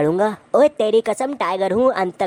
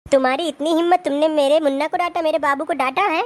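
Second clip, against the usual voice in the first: angry wife; 5 semitones higher than usual. Acted. Wife scolds husband for child.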